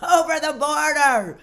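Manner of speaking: loud comic plea; exaggerated shouted begging; mock begging. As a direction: call desperately after the van, hammed up. Begging the white vans to stop.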